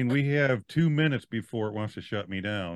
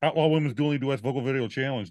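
fast tongue twister. Shown as a demonstration. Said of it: "Do it again".

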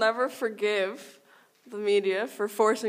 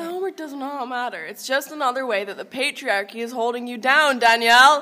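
mock rallying cry; 2 semitones higher, 7 dB louder than usual. Mock political rant to letter writer.

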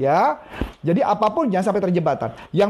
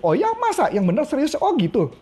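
interested surprise; 5 semitones higher than usual. Shown as a demonstration. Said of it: "cuma Anda ngomong gitu".

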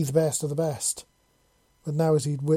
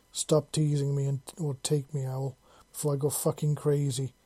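panting. Acted. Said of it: "she panted wantingly".

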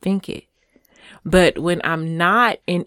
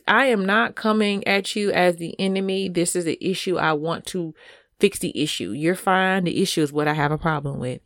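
calm reassurance; 5 dB quieter than usual. Shown as a demonstration. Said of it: "you can even say things like this".

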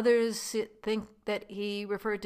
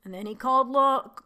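dramatic reading; 2 semitones higher than usual. Retold or imitated. Vlogger reads Trump's Carson City speech to viewers, emphatic reading. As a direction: read the quote with your own pointed emphasis, not an impression. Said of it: "I'm gonna give it my inflection".

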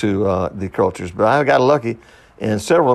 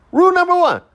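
very high-pitched mock Asian accent; hammed-up Asian accent, pitched way up; 4 dB louder than usual. Comic reciting the store's rules to himself, mock Asian accent. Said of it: "I'm talking now like if I were Asian".

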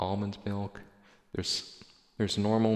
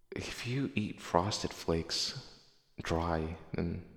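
whispering; 3 dB quieter, much slower than usual. Real, not acted. Conspiratorial cereal warning.

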